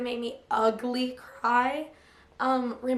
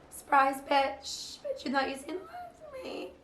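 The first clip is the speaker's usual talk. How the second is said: mock diva taunt, pitched up on the second line; sassy meme quote; 4 semitones higher than usual. Vlogger popping back in with a cheeky meme taunt.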